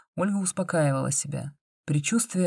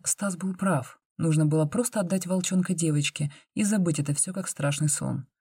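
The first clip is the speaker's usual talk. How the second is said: usual speaking voice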